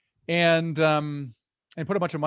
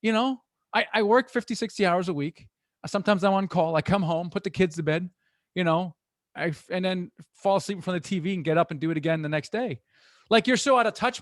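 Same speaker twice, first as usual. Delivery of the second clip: exasperated worker; 4 semitones higher than usual. Retold or imitated. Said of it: "they're like".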